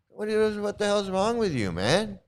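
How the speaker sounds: high-pitched, incredulous outburst; exasperated scolding. Acted. Guru telling off a disciple over public remarks, high exasperated scolding. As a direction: berate him in rising disbelief.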